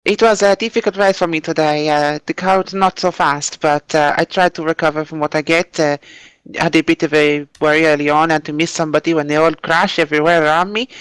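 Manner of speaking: put-on a light, half-hearted Italian accent that slips toward Finnish; mock Italian driver accent. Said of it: "I will pretend to be Mambo Palumbo".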